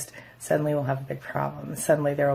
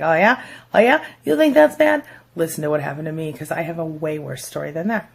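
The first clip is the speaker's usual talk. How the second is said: competitive one-upping; 5 dB louder than usual. Retold or imitated. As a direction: top their story, loudly. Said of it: "they're like".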